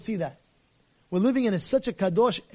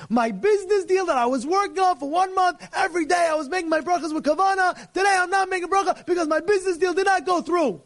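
mocking shout; 7 semitones higher than usual. Mocking guy's excuse, rising shout.

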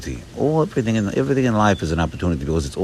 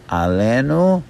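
Alenu stretched out and lifted higher; slow demonstration; 4 semitones higher, slower than usual. Shown as a demonstration. Teacher breaking down the prayer, Alenu said slowly. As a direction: say Alenu slowly, set apart. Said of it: "Let's say it slow".

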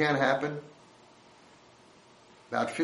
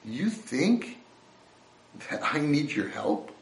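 mild mock defiance growing louder; defiant street kid; 5 dB louder than usual. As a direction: push back at the offered help. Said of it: "he says".

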